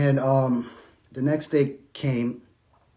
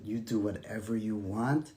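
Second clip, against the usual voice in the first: resigned surrender; 6 semitones lower, 10 dB quieter than usual. Retold or imitated. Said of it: "and I said".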